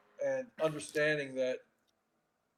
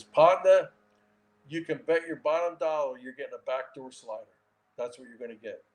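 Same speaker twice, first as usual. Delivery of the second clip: Louisiana twang; 4 dB louder than usual. Retold or imitated. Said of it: "he's from Louisiana in this little twang".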